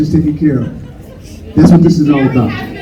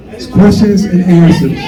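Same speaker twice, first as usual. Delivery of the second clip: firm raised call to order; 3 semitones higher than usual. Real, not acted. Moderator restoring order, shouting.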